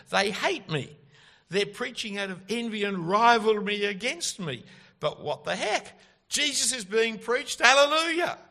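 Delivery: loud, high exclamations building to a shouted hallelujah; defiant rejoicing. Acted. Preacher voicing Paul rejoicing that Christ is preached despite rivals, exultant. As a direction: exult emphatically, rising to a ringing climax.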